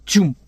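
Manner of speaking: short, punchy "choom"; imitated power-down noise. Reader voicing lights being killed, imitated noise. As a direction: make a quick comic-book sound effect.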